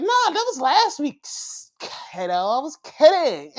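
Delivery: high-pitched mock-cheery backpedal; bubbly brush-off. Wrestler waving away last week's anger, high and bubbly. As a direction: squeal it lightly, laughing it off.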